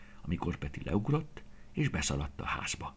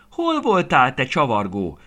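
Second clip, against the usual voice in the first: much higher and louder, a worried grandmother's cry; 8 semitones higher, 11 dB louder than usual. A narrator's reading. Grandmother calling to her grandson who came home late, loud anxious cry. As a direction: call the boy's name out, relieved and cross at once. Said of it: "kiáltott fel Aranka néni".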